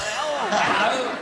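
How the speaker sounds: high, slow, nasal-ish mock "hello"; nose voice imitation. Co-star imitating the director's nose trick, high and slow. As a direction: squeeze it through the nose, drawn out and high. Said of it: "where he goes like".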